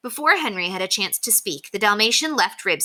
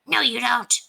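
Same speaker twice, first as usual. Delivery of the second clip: higher-pitched contradicting dog; Ribsy; 6 semitones higher than usual. A narrator's reading. Dog argues back at the Dalmatian, defiantly. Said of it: "said Ribsy".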